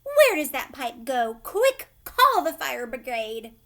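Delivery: loud, panicked cry for the fire brigade; frantic shout. A narrator's reading. Frantic mother yelling for the fire brigade, loud panic. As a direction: yell it in alarm, calling for help.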